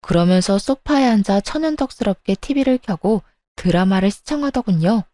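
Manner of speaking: plain reading voice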